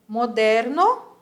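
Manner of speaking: Moderno with a rolled Spanish r, slow and loud; Spanish trilled r. Shown as a demonstration. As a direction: roll the r in Moderno. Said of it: "Olha a vibração do meu R".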